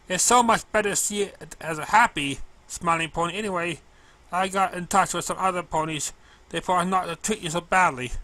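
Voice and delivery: a sweet clumsy mail pony, bright and keen; girlish cartoon pony voice, slowed and earnest; Derpy's voice.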